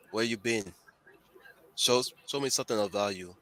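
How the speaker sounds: put-on rough try at a Jamaican accent; attempted Jamaican accent. Game master as a barkeep taking an order, attempted Jamaican accent. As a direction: put on a loose Jamaican lilt. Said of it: "trying to do my best Jamaican accent".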